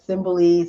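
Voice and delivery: "Simboli" with an o in the middle; pronunciation variant. Shown as a demonstration. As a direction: say "Simboli" as one option, middle vowel like "bo". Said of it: "spelled and pronounced".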